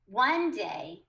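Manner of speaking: "one day" with a lift on "one", then a pause; pause at the comma. Shown as a demonstration. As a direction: read "one day" and stop briefly at the comma. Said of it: "it's first a pause".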